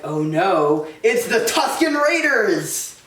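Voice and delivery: slow rising mock panic; hammed-up dread at the drums; drawn-out pretend fear; mock alarm.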